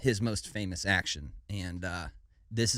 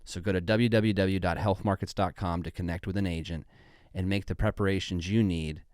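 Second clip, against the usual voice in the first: measured sponsor testimonial read. Acted. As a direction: read it as a veteran's scripted endorsement.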